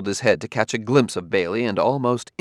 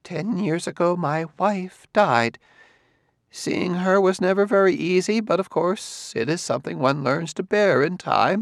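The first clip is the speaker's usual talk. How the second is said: put-on slow, raised, halting old man; slow confession about his dead wife; said slowly; 9 semitones higher than usual. A narrator's reading. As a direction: ease out the memory slowly. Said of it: "He said slowly".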